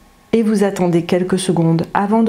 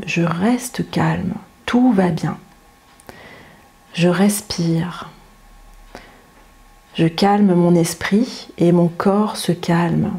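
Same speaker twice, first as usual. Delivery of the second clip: calm self-talk. Shown as a demonstration. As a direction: soothe yourself gently, unhurried. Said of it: "vous parler tranquillement et gentiment".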